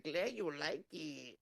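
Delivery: put-on Filipino accent. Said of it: "With her little accent".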